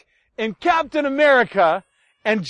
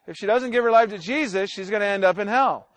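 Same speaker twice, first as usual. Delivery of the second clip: slightly slower, measured repeat; a bit slower. Retold or imitated. Preacher repeating himself to an upset relative, a bit slower. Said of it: "Let me say it a little bit slower".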